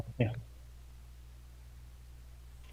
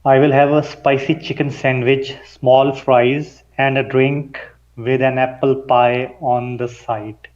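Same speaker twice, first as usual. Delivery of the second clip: slow and deliberate, every vowel sounded out; careful enunciation. Shown as a demonstration. Student reading an order aloud for his coach, carefully enunciated. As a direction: pronounce each sound cleanly, unhurried. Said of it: "You enunciated".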